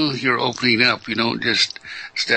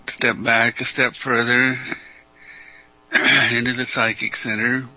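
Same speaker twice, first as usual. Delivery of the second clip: measured meditation guidance with long pauses; guided meditation. Real, not acted. Teacher guiding callers through opening up, unhurried meditation delivery. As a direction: lead them inward, leaving space after each phrase.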